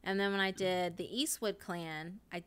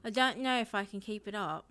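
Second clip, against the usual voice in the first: tentative put-on Australian accent. Streamer unsure they can keep it up, Australian accent. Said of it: "oh, my Australian one".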